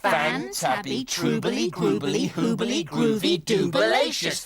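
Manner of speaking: Fan-tabby said slowly, syllable by syllable; slow first try. Shown as a demonstration. Groove practising the Hoob word, slowly and carefully. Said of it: "let's go for it now".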